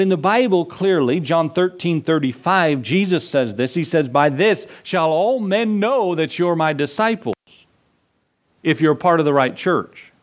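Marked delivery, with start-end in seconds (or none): 4.1-10.1 a pastor misquoting the verse on purpose, lightly mocking; mock misquote. Shown as a demonstration. Pastor to congregation, misquoting scripture as a joke, lightly mocking. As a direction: read the verse wrong with a touch of irony. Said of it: "Does it say that?".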